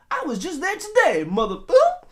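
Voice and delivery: loud, high outburst ending in a censored curse; hammed-up cussing with a beeped swear; mock movie tough guy. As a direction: exclaim it with comic outrage. Reprises the mock movie-hero cursing.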